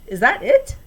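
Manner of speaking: high, loud impatient snap; snapped. A narrator's reading. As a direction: cut her off sharply. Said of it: "Mister Lorenz snapped".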